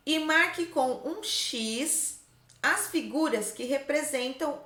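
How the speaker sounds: measured, phrase-by-phrase classroom read-aloud; reading out instructions. Shown as a demonstration. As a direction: read the task out with careful pauses. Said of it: "Olha só o que tá escrito aqui".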